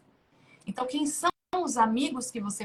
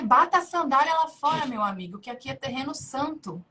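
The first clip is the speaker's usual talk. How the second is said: voice of God; 3 dB louder than usual. Retold or imitated. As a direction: deliver it like a solemn divine command. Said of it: "assim que Deus falou pra Moisés". (voz solene de Deus ordenando)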